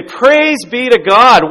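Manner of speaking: very slow, high, loud praising cry; cheering yell. Retold or imitated. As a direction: stretch out the cheer in triumph. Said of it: "the kid starts to laugh and cheer and yell".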